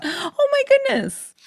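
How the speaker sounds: very high, slow, drawn-out exclamation; mock-innocent retelling. Wife mocks husband's changed version, high and slow mock innocence. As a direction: exaggerate a harmless, squeaky version of his outburst. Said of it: "You always change it".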